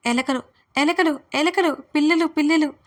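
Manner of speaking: high, loud, silly wailing; tipsy shout. Acted. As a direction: cry out the words like a drunk child. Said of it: "అని గట్టిగా అరిచేశాను". (మత్తుగా గట్టిగా అరుపు)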